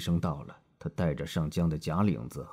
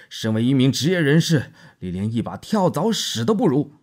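higher and louder, 业 hit hard and falling; scornful tirade; 8 semitones higher, 11 dB louder than usual. A narrator's reading. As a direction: spit the insult at him. Marlowe insults the doctor.

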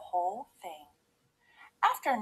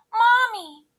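high, loud cub cry; Baby Bear; 13 semitones higher, 10 dB louder than usual. A narrator's reading. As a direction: cry out for your mother. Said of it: "cried Baby Bear".

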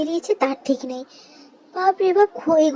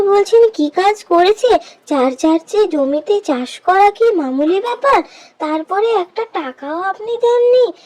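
louder, indignant demand for wages; angry protest; 6 dB louder than usual. Acted. Worker confronting landlord over unpaid wages, loud and indignant.

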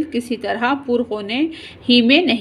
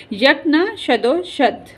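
slow, pained moan of the proverb; groaning; 3 semitones higher, slower than usual. Acted. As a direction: drag it out through a groan. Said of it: "मियाँ कराते हुए". (कराहते हुए धीमी आवाज़ में)

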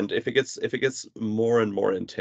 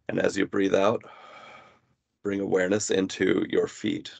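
measured meditation guidance with long pauses; guided body scan. Real, not acted. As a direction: guide the listener gently into body awareness, pausing between phrases. Leads a body scan exercise.

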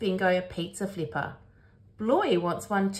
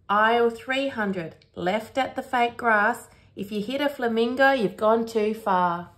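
lightly voiced store guy, higher; shop assistant; 3 semitones higher than usual. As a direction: rattle off directions like a store worker. Voices the Hammer Barn guy giving directions.

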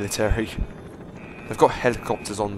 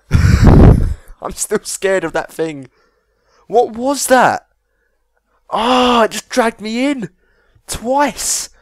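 scared laughter; 8 semitones higher, 5 dB louder, much slower than usual. Real, not acted. Just escaped a scary monster.

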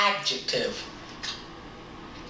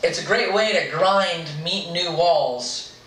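reading aloud. Acted. Reading the story.

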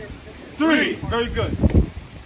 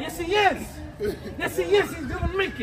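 laughing while insisting; 4 semitones higher than usual. Real, not acted. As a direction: chuckle through the words. Laughing hype for friend.

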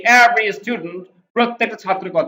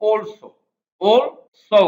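British also; 2 semitones higher, much slower than usual. Shown as a demonstration. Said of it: "ব্রিটিশরা বলে".

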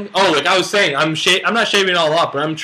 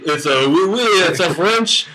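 mock French accent; 2 semitones higher, slower than usual. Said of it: "Your accents are so horrible".

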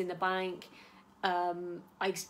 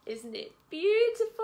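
delighted gush; 12 semitones higher, 4 dB louder than usual. Real, not acted. Admiring new bag.

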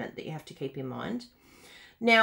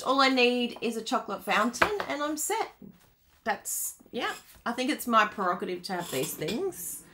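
ordinary talk, nothing marked

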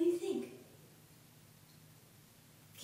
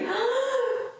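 blowing out hard; 14 semitones higher than usual. Shown as a demonstration. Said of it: "take a big breath and blow as hard".

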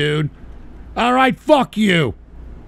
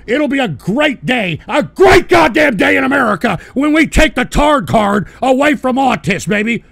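louder, a mock rally cry; ranting proclamation; 4 semitones higher, 4 dB louder than usual. Real, not acted. Streamer proclaiming a great day in America, loud rant. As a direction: proclaim it like a speech.

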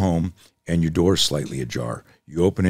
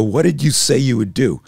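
pressing challenge; 7 semitones higher, 5 dB louder than usual. Retold or imitated. Instructor presses the angry student.

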